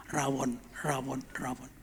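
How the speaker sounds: soft, low echo fading to a whisper; lingering craving. Retold or imitated. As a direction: murmur it like a thought that lingers. Craving echoes in his head.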